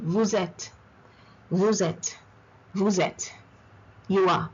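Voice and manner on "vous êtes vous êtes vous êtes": Vous êtes as "vou-zet", S turned to Z; liaison. Shown as a demonstration. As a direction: carry a Z from Vous into êtes, falling close. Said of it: "The S goes into the next word".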